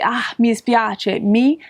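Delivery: mi dispiace drawn out slow and apologetic; slow regretful mi dispiace; sorry, slow. Shown as a demonstration. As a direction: apologize slowly, meaning it. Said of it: "you just wanna say".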